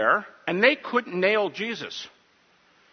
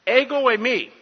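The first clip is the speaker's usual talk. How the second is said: Jesus answers; 7 semitones higher, 4 dB louder than usual. Retold or imitated.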